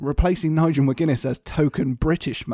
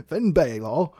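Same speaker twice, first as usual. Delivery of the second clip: laughing through it; slower than usual. Retold or imitated. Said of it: "William Regal".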